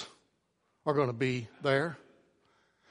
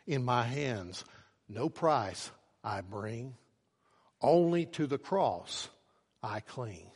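humble plea; 3 semitones lower, slower than usual. Acted. Humble man answers at gate.

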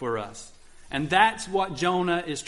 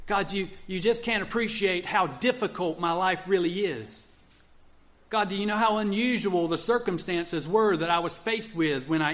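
higher, complaining plea to God; mock whining excuse; 5 semitones higher than usual. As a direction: whine about the pressure you were under. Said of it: "You can try to convince God".

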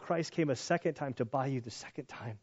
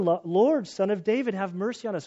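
louder pleading call, building on the first words; crying out louder; 4 semitones higher, 4 dB louder than usual. Retold or imitated. Blind men crying out louder over the crowd. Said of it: "they cried out all the more".

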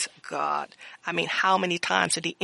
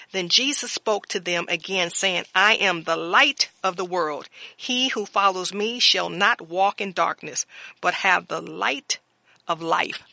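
louder, measured sermon reading of scripture; 3 dB louder than usual. Acted. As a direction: proclaim the verses to the congregation.

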